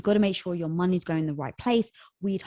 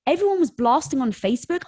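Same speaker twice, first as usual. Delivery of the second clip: usual speaking voice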